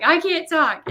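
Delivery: high, loud mock-tearful voice; imitated crying. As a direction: play a friend too tearful to talk. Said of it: "like, she's crying".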